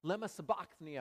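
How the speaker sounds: loud, high anguished cry; Jesus on the cross, a loud anguished cry. Retold or imitated. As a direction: cry out to heaven in agony. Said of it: "Jesus cried in a loud voice".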